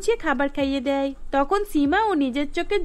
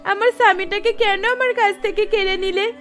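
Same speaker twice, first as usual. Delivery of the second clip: crying lament; 5 semitones higher, 4 dB louder than usual. Acted. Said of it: "কান্নায় ভেঙে পড়ে".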